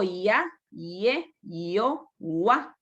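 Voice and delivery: "ia" glided into one syllable, "ya"; counterexample, "ua" as a single "wa" sound; diphthongs. Shown as a demonstration. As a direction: run the vowels together in "ia, ie, io, ua". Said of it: "No digo".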